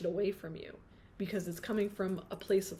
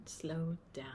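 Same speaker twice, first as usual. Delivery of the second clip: breathy whispered slow down; 4 semitones lower, 6 dB quieter than usual. Acted. Reader whispering a message from her guides. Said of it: "whispered message".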